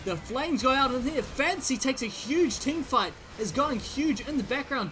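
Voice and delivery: rising high, loud caster hype; high, loud esports caster hype; excited play-by-play. Acted. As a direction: call the teamfight with building excitement. Excited team fight call.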